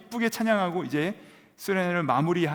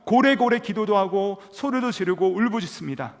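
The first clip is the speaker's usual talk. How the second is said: preaching at full force; 6 semitones higher, 6 dB louder than usual. Acted. (높고 크게, 느리게 외치는 설교)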